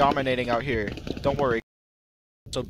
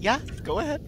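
mocking the driver; 10 semitones higher, 4 dB quieter, much faster than usual. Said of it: "Just like".

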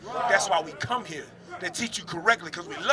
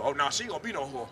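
retold protest; 6 semitones lower, 7 dB quieter, faster than usual. Acts out the woman's objection.

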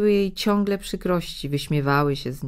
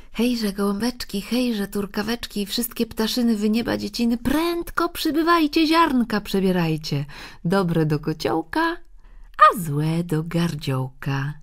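high, urgent chanting call to birds; narrated girl's lilting, raised call; 4 semitones higher than usual. A narrator's reading. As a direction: summon them, rising to a high peak. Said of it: "biegnie znów do ogrodu bocznymi drzwiami i woła".

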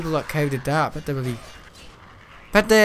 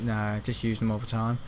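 sarcastic; 5 semitones lower, 6 dB quieter than usual. Retold or imitated. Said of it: "Being sarcastic".

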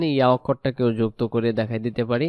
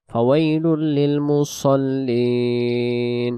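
slow, long-held tajweed recitation; Quran recitation; much slower than usual. Shown as a demonstration. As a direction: recite the verses very slowly, stretching the vowels.

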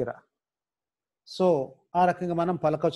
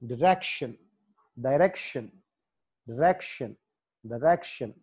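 డైరెక్షన్ with the stress on its "rek" syllable; teacher's డైరెక్షన్, punched at the R; 2 semitones lower than usual. Shown as a demonstration. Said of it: "ఆర్ దగ్గర".

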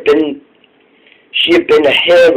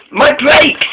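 high, sudden exclamation; urgent realisation; 11 semitones higher than usual. A narrator's reading. Molly suddenly thinks of her brakes, urgent. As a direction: exclaim it as the idea strikes.

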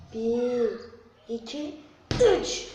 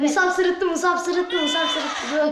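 excited call-out; 3 semitones higher, 4 dB louder, slower than usual. Real, not acted. Calling out a caught laugh.

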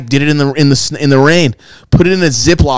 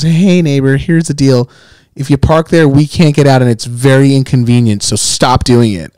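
polite neighbor. Retold or imitated. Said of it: "wrote the most Caucasian letter ever".

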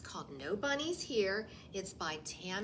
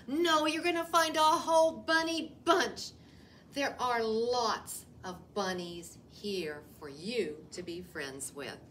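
joyful reveal; 5 dB louder than usual. Acted. Rabbit reveals the bunny bunch to the wolf, joyful. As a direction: burst out with the happy surprise.

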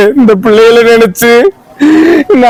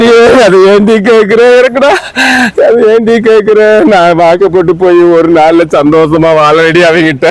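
crying; 3 semitones lower than usual. Acted. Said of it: "எதுக்கு அழுகுற இப்படி?".

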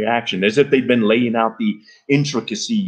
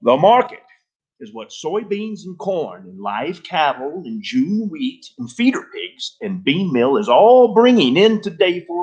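loud voice; 7 semitones higher than usual. A narrator's reading. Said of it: "he began in a loud voice".

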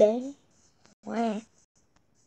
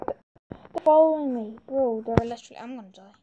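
panicking gamer. Real, not acted. Mobs chasing him in game.

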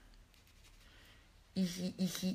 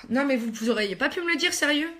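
mock reproach; 5 semitones higher, 3 dB louder than usual. Real, not acted. Blames viewers for not telling her.

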